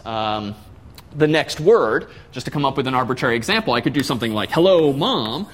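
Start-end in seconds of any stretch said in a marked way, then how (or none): 4.5-5.5 all caps. Shown as a demonstration. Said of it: "just write it in all caps".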